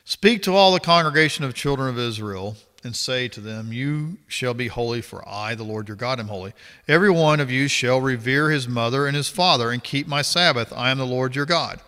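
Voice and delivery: measured, formal Bible reading voice; scripture reading. Acted. Reading Leviticus aloud to viewers, formal scripture reading. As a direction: read the verses out steadily, like a passage at church.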